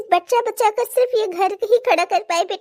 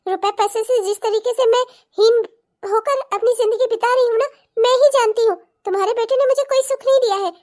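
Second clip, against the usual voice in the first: angry outburst. Acted. Daughter-in-law snaps at old in-laws.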